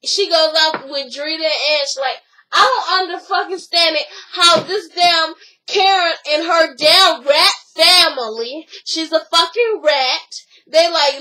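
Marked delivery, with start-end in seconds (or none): 2.5-10.4 mildly heated rant in a retold quote; retold anger. Retelling a woman griping to her friends about Karen, mildly angry. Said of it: "So she gets mad".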